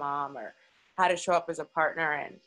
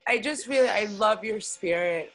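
holding back tears; 3 semitones higher, 3 dB louder than usual. Real, not acted. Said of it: "I'm sitting here trying not to cry".

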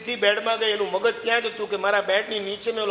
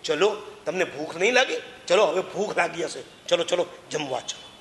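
caring call; 3 semitones lower than usual. Retold or imitated. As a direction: invite them gently to eat. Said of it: "મેં શું કીધું". ('તમને' પર ધ્યાન રાખી પ્રેમથી બોલાવતો સાદ)

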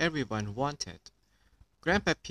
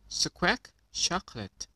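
parrot squawk; 6 semitones higher than usual. Acted. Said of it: "Polly Parrot copied".

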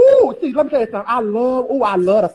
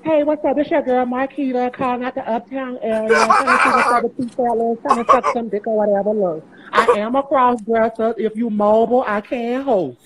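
flirty phone-line caller voice; party line voice. Shown as a demonstration. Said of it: "this my party line voice right here".

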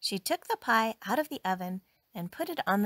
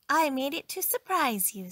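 pleased, higher-pitched little announcement; happily; 6 semitones higher, 3 dB louder than usual. A narrator's reading. Maid reveals her surprise to employer, happily. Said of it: "said Amelia Bedelia happily".

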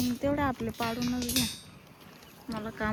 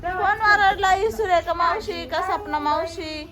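indulgent questioning; 6 semitones higher, 3 dB louder, slower than usual. Real, not acted. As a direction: stretch out the choices for the little one. Asking toddler who scolded her. (लहान मुलाला लाडाने, उंच आवाजात विचारणे)

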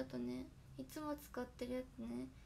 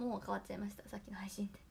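hoarse voice; 4 semitones lower than usual. Real, not acted. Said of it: "声がガサガサです".

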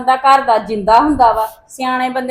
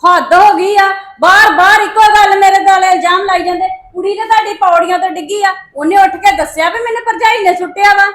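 exasperated, slightly raised self-defence; indignant protest; 4 semitones higher than usual. Acted. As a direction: push back against repeated accusations. Acted quarrel, wife denies blame. (ਖਿਝ ਕੇ ਰੋਸ ਨਾਲ)

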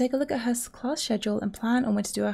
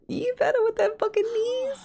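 whispered, pitched-up cheer; breathless whispered hype; 11 semitones higher than usual. Real, not acted. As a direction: hiss out the cheer in awe. Cheering the sims on.

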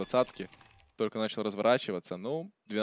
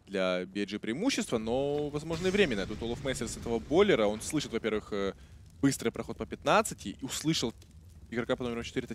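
esports caster. Real, not acted. Live play-by-play commentary.

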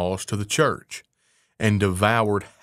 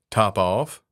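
cool. Acted. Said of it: "said the cat quite coolly".

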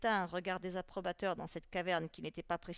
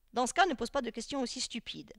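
raised, higher-pitched rebuke; angry; 4 semitones higher, 6 dB louder than usual. A narrator's reading. Teacher rebukes a pupil's question, angrily. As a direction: scold him for asking at all. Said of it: "cria Xanthippe en devenant rouge de colère".

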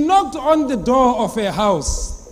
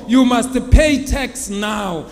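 slow stern demand; 5 dB louder, slower than usual. Acted. Tax collector demands payment.

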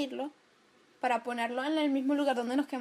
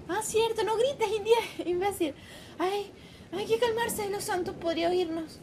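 urgent scolding; 5 semitones higher than usual. Acted. Urgent acted exchange, someone may hear.

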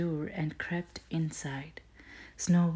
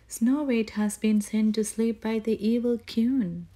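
higher, louder anguished cry; 6 semitones higher, 5 dB louder than usual. Acted. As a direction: cry it out in alarm. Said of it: "they cried".

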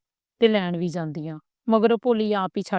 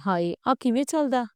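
higher, wide-eyed wonder at the new TV; a young wife thrilled and curious, voice lifted; eager curiosity; 5 semitones higher than usual. A narrator's reading. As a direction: ask him eagerly how it works. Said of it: "ਗੁੱਡੀ ਗੌਰ ਨਾਲ ਵੇਖੀ ਜਾਵੇ ਤੇ ਬੋਲੀ".

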